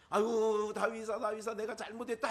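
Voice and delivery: loud wailing apology, hammed up; acted outburst of regret; mock remorseful cry. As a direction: call out contritely, imitating a king. Acting Saul's remorse to David.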